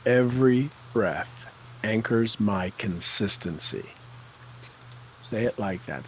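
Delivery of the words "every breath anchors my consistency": steady, sure affirmation; confident and determined. Shown as a demonstration. Coach showing how to say the tapping line, determined. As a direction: say it like you mean it completely. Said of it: "Say it with confidence and determination".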